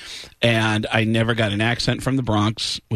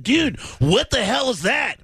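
high, slow, shouting rocker voice; impression of a singer; 10 semitones higher than usual. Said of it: "I said".

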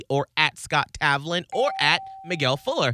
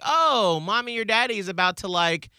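cat voice; 3 semitones higher than usual. Retold or imitated. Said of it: "In the cat voice".

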